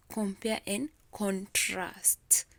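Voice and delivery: slow "Compare and contrast", emphasis on PARE and TRAST; stress on second syllable. Shown as a demonstration. Teacher proving the point to students, "Compare and contrast" stressed on second syllables. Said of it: "so much emphasis on the second".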